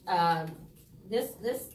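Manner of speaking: talking around hard candy; candy in mouth. Real, not acted. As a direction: speak with candy in your mouth. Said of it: "I can't talk with candy in my mouth".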